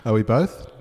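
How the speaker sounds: echoing like a tiled bathroom; small room echo; bathroom reverb. Real, not acted. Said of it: "you're well and truly in the bathroom".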